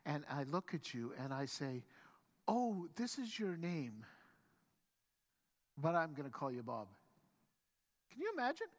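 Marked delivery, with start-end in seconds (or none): 2.5-6.9 deadpan renaming. Acted. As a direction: calmly announce it after a deliberate pause. Mock first meeting, renaming a stranger.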